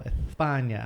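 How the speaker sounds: "España" with the s as TH; Spain lisped TH. Retold or imitated. Retelling an overheard girl, "España" with a TH. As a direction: say "España" lisping the s, Castilian style. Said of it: "she said, like, the whole".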